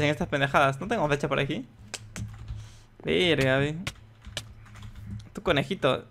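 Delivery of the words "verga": ordinary talk, nothing marked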